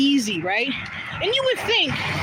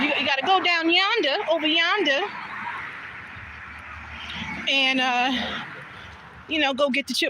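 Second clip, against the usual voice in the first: country grandma; 3 semitones higher than usual. Retold or imitated. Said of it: "My grandma's so country".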